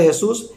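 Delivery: Jesús with a lisped ending, "yeh-thoos"; Jesús said the German way; German pronunciation. Shown as a demonstration. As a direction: give Jesús its German sound. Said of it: "se pronuncia".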